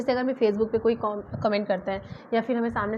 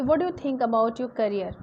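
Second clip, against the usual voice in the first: slow example sentence; much slower than usual. Shown as a demonstration. Teacher modelling an English sentence, slow and clear. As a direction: read it slowly, word by word. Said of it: "जैसे अब मैंने बोला कि".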